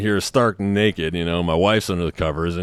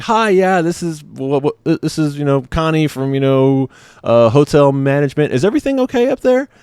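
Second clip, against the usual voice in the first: higher-pitched imitated phone operator; hotel operator impression voice; 7 semitones higher, 4 dB louder than usual. Hotel operator calling the room, imitated operator voice. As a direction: do a halting, high-voiced caller checking in. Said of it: "you know, hotel operator, like".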